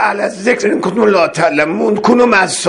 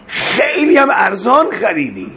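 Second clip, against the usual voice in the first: tearful cry. Real, not acted. Preacher's tearful climax.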